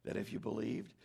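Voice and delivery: softened voice, reassuring her; tender, knowing. Retold or imitated. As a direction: say it with a loving wink. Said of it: "He's saying tenderly".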